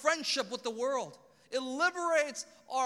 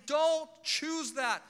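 higher, louder, slow pleading; God begging sinners, slow and pleading; 4 semitones higher, 3 dB louder, slower than usual. Acted. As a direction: beg them not to choose it, slowly and urgently. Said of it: "He's sitting here begging, saying".

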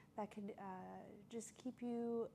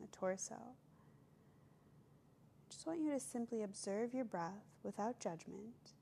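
calm meditation voice with long pauses; guided meditation. Acted. Yoga teacher leading listeners to observe their breath, guided meditation. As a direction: guide them gently, leaving space between phrases.

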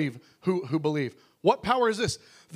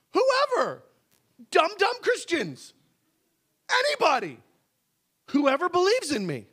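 teasing Jesus voice; 8 semitones higher than usual. Acted. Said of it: "He says".

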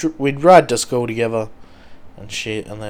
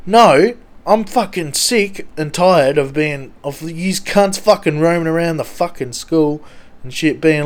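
mock fury at the school tough guys; retold angry rant; 3 semitones higher, 3 dB louder than usual. Retelling his own schoolyard rant.

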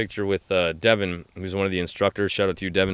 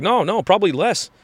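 higher, offhand dismissive reply; imitating the fighter; 9 semitones higher than usual. The fighter brushing off a fan's training question, offhand. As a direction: shrug it off like the tough fighter. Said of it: "And you're like".

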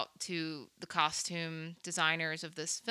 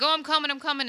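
high-pitched imitation of hurrying to help; put-on high voice, calling ahead; mock eager rescuer; 9 semitones higher, 3 dB louder, faster than usual. Host voicing friend hearing Sarah's trouble, high mock eagerness. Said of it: "and he's like".

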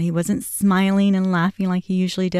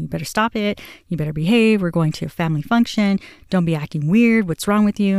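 mildly stern motherly telling-off; retold scolding lecture. Mother lecturing son before a family function, mildly scolding. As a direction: recount firmly laying down the rules. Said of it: "I basically gave him a lecture".

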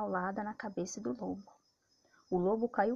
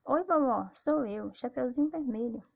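put-on wolf faking a little girl, higher; sweet put-on girl voice, slightly off; copied girl's voice; 4 semitones higher, 4 dB louder than usual. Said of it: "imitando a voz de Chapeuzinho Vermelho".

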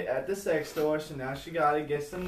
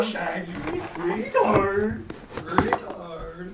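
silly mocking voice; 3 semitones higher, 4 dB louder, much slower than usual. Imitating the voice.

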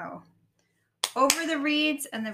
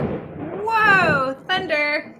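surprised; 5 semitones higher, 8 dB louder, much slower than usual. Real, not acted. Startled by thunder while reading.

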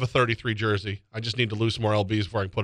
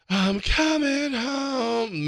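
dramatic quote; 11 semitones higher, much slower than usual. Retold or imitated. Quoting Melo's announcement.

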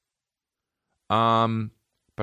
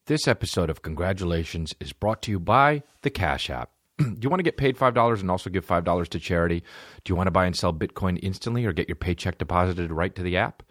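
upbeat sponsor read. Acted. Host reading ad to listeners, upbeat. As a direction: sell the app like a host ad.

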